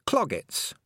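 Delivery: high-pitched heading read out; reading aloud. A narrator's reading. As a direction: announce it like a book heading. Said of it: "she said aloud".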